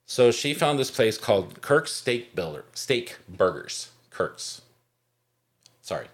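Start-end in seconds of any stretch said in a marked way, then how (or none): 1.6-4.6 real stumble over the name, then correcting it; tongue-tied. Real, not acted. Podcast host fumbling the burger place's name, tongue-tied. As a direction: trip on the words and restart. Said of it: "tongue-tied".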